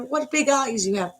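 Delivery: put-on high-pitched storybook girl; Little Red. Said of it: "actually what she says is".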